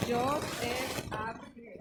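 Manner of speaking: Yod, He, Av, He named one by one, trailing off; Hebrew letter names. Shown as a demonstration. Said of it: "Pero en hebreo son".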